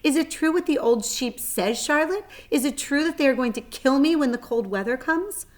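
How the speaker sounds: high, loud frightened pleading; panicked. Acted. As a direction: beg in rising panic. Wilbur panics about dying.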